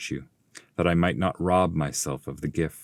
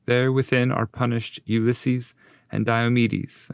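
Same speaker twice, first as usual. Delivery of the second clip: raised, grave explaining voice; Virgil the guide; 5 semitones higher than usual. Acted. Master explaining the punished Greeks to Dante, grave raised voice. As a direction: tell their sins with solemn weight.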